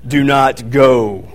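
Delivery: stretched-out slow-mo command; slow-motion warning. Retold or imitated. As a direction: drag every word like slow motion. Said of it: "I'm like the Heavenly Father over him".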